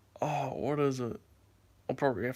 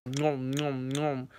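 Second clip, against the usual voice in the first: mock chewing sounds; much slower than usual. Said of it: "hated hearing people go like".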